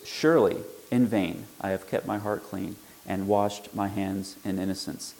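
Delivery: "Surely" hit hard, the whole line read as an exclamation; full emphatic force on "Surely", ending on a firm fall. Shown as a demonstration. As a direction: proclaim it with an exclamation point. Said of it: "Exclamation point".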